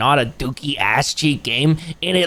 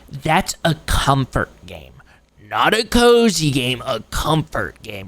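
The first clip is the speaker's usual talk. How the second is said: pedantic gamer; 2 semitones lower, slower than usual. Acted. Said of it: "they'd be like".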